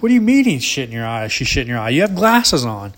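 disbelieving, half-laughing question; you can't believe what you just heard; incredulous. Retold or imitated. Son questions dad about turkey droppings, incredulous.

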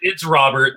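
Robert said as ROB-ert; Robert stressed on its first syllable; English pronunciation. Shown as a demonstration. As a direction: say Robert with the final T sounded. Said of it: "he has said himself, "It's, it's Robert".

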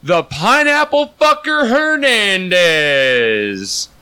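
high, stretched-out announcer build; ring announcer introduction. Pretend. Host introducing Chris the co-host, big announcer voice. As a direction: draw the name out like a ring announcer.

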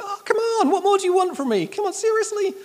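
high, loud exasperated whine; frustrated Paul. Acted. Apostle pleading with the Corinth church, exasperated protest. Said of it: "that's what Paul's doing here".

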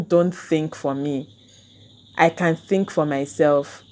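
slow, deliberate retold insistence; firm demand. Telling friends not to decide for her, slow and firm. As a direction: spell it out slowly and firmly.

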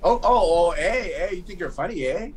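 put-on playful Toronto accent challenge. Co-host teased about Canadian accent, playing up Toronto accent. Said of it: "that's a Toronto accent right there".

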